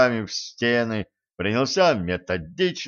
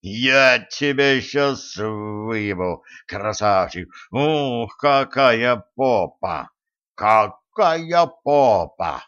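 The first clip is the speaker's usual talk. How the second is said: slow, lustful growl in ear; excited growl; slower than usual. Acted. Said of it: "возбуждённо рыкнул в ухо".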